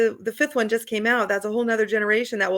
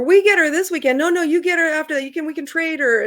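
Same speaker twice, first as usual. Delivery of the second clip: friendly squabble, louder and higher; mock bickering; 4 semitones higher, 5 dB louder than usual. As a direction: argue warmly over who hosts her. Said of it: "bickering over".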